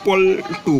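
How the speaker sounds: পল্টু said with the tongue touching the roof for ল; the ল in পল্টু shown off clearly; demonstrating a word. Shown as a demonstration. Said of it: "দেখো জিভটা মূর্ধায় গিয়ে". (পল্টু উচ্চারণ করে দেখানো)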